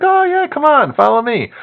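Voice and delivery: lightly mimicked sweet store clerk; chirpy clerk voice. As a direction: play the cheerful night clerk. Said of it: "She's like".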